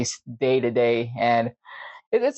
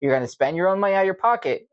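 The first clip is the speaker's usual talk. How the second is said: lightly mimicked lecture, higher voice; lecturing coworker; 4 semitones higher than usual. Coworker lecturing him about lost gear, mildly mocking. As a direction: imitate a man giving a speech. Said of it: "he gave me a speech".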